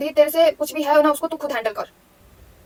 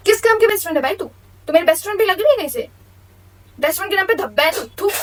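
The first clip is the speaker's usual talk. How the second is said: angry outburst; 4 semitones higher, faster than usual. Real, not acted. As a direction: spit the words at her in contempt. Angry outburst at ex-best friend. (तेज़, ऊँची, गुस्से भरी फटकार)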